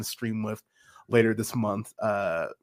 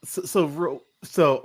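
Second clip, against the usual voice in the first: strained voice; 4 semitones higher than usual. Real, not acted. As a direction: voice about to give out. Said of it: "I'm gonna lose my voice".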